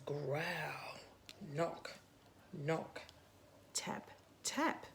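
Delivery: slow whispered sound words, growl drawn out; whispered noises. Acted. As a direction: breathe the noises out secretly. Reading the car's noises.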